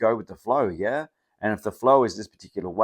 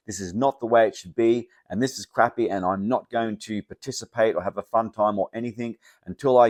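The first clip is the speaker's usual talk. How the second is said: stamp your foot over the wrong flavour, raised voice; mock indignant complaint; 2 semitones higher, 6 dB louder than usual. Person shaking their fist at the world, loudly indignant. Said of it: "shaking their fist the entire time saying".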